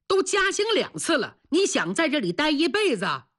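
exasperated scolding. Acted. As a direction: scold him with rising pitch.

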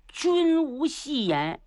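slow, weighty promise; solemn pledge. Acted. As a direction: give your word like a ruler. Qin Hui solemnly promising.

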